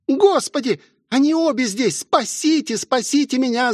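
высокий испуганный вопль о спасении; завывает от страха, умоляя спасти; с воем. A narrator's reading. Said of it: "завыла Элизабет". (Элизабет при виде горничных воет от ужаса)

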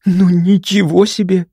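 doctor alone, amazed after the door shuts; astonished exclamation. A narrator's reading. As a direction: let the held-in wonder burst out. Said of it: "эмоции всё же взяли вверх".

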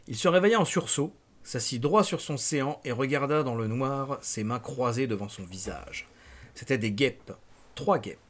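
measured, dramatic novel reading; deliberate audiobook-style narration; story narration. A narrator's reading. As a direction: read the nightmare out like a storyteller. Reads novel aloud.

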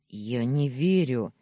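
a touch of a growl in it; mock growl. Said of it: "зарычал Даня".

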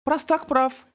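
put-on high little-boy voice; a twin siding with his brother; child voice. A narrator's reading. Miles agreeing with Beckett in a high childish voice.

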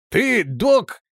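mocking laugh. A narrator's reading. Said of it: "рассмеялся капитан".

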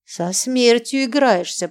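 slow, grave warning. Acted. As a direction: say it slowly as a caution. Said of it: "предупредила Варвара".

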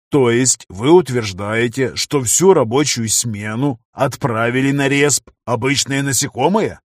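slow, annoyed disbelief; irritated. Acted. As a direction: press them with irritation. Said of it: "раздражённо произнёс".

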